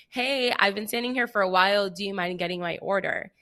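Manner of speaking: retold sweet, careful ask; nice as possible. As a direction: ask as nicely as you can. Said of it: "as nicely as possible".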